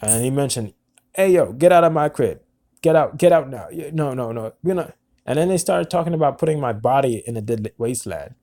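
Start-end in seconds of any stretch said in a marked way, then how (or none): 1.2-4.9 retold yell. Phone caller ordering him out.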